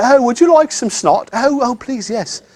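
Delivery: mock-polite host. Teacher mimicking someone offering a goblet of snot, mock-genteel. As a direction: play at genteel offering and accepting.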